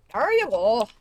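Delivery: hammed-up creaky old man. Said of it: "It's really hard to do an old man voice".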